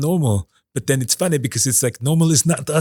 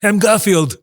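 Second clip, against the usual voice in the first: Garfield impression; 4 semitones higher, 3 dB louder, slower than usual. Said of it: "just doing your normal voice".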